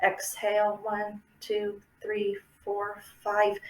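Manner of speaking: quiet steady counting through the breath; calm guided breathing count; soft breath count. Shown as a demonstration. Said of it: "do our breathing".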